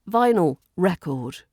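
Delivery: "record" as REC-ord after "vinyl"; noun stress. Shown as a demonstration. Teacher gives a noun example, "record" stressed on REC. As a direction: stress the first syllable of "record". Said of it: "if you put the stress".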